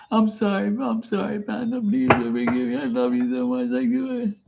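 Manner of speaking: put-on grovel to her in an Irish accent; Irish man whimpering sorry. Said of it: "no more Irish, acting like some Irish jackass".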